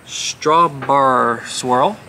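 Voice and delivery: "Strawbar swirl" drawn out very slowly, "STRAH-bar"; reading "Strawbar" syllable by syllable; a puzzled "Strawbar" with a rising tune; slow sounding out. Shown as a demonstration. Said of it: "I cannot do accents".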